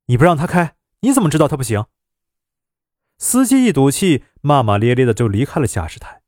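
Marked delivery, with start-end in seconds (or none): 0.1-1.9 a touch of defiant retort to the driver; talking back. Acted. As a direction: push back at the driver, mildly heated. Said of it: "竟开口顶撞司机". (顶撞司机，略带火气)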